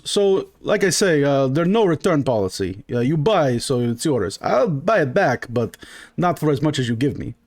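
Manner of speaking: put-on lightly accented merchant with a lilting tune; a hint of an unbothered foreign trader; marble-mouthed shopkeeper. Shopkeeper explaining no return policy, mildly accented.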